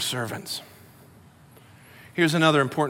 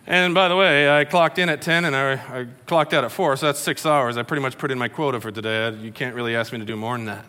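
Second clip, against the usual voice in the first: mock excuse-making; 4 semitones lower than usual. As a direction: trail down into a low, offhand excuse. Acted servant making lazy excuses to master.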